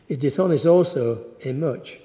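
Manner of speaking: measured reading of the Gospel, slowing and fading at the close; scripture reading. Acted. Preacher reading the Gospel to the congregation, solemn and measured. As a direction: read it solemnly to the congregation, letting the end drop away.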